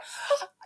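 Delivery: sharp mock gasp of delight; excited gasp. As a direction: gasp as if thrilled at the door. Imitating excited greeting at home.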